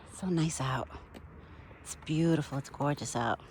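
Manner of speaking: breathy whisper to herself. Real, not acted. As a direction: whisper it, almost to yourself. Soft aside outdoors.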